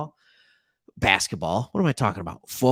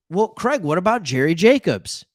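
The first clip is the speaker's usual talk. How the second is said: objecting viewer; 3 semitones higher, 5 dB louder than usual. Pretend. Fan calling out Craig about A J Parker, mock indignant. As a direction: play a fan cutting in with a gotcha.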